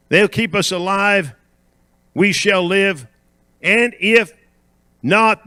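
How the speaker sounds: declaiming Bible story with pauses; scripture reading. Acted. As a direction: read the passage out to the congregation. Reads scripture aloud to congregation.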